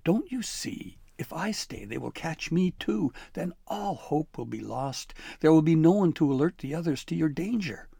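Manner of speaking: a scared sprite blurting out the plan; high frantic elf urging escape; frightened elf. Acted. Voiced elf Flibberty.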